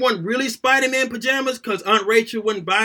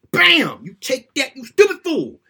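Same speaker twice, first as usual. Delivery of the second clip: mock wrestler taunt; 4 semitones higher, 3 dB louder than usual.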